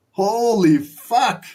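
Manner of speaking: excited holy fuck. Real, not acted. Liquidation candle arrives.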